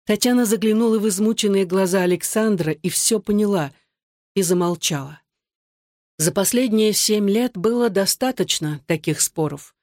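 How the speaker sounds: ordinary delivery, nothing marked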